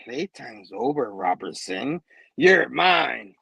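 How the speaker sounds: low, slow menacing threat; menacing villain voice. Retold or imitated. A villain ambushing on the carousel, low and slow. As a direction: growl it like a villain. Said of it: "and a voice goes".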